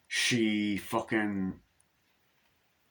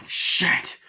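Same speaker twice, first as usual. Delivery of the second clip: hushed unvoiced panic; whispered; 5 dB louder than usual. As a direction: breathe it out in a panic.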